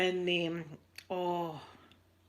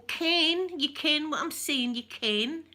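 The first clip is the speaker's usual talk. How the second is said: northern Scots dialect; 5 semitones higher, slower than usual. Retold or imitated. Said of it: "and they'll go".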